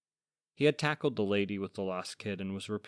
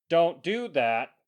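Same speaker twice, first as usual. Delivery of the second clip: faint demon voice; 9 semitones higher, 9 dB louder, slower than usual. Acted. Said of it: "came a faint demon voice".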